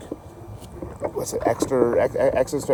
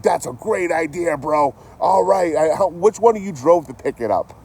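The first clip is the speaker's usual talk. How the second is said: dry, hammed-up sarcasm at the guys' plan; sarcastic praise; 9 semitones higher, 4 dB louder than usual. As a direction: pretend to be impressed. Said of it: "And you're like".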